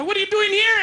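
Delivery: high, incredulous question; mock shock at an old classmate; startled greeting. Date's parents startled to see him.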